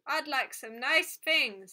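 a toy droning its one wish; metallic doll voice. A narrator's reading. Doll asking the girl for nice things, slow tinny voice. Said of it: "said the metallic voice".

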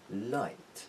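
"لایت" opening on a lively, clear L; fully sounded L starting "لایت". Shown as a demonstration. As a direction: say "لایت" with the tongue tip pressed behind the teeth for L.

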